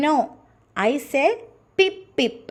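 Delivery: squeaky high mouse, pip pip up high. Acted. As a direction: play a tiny mouse answering. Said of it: "said the mouse".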